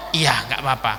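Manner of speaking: low, unruffled reply; acted composed assent; calm acceptance. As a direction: accept it gently and evenly. Prophet calmly accepts the challenge.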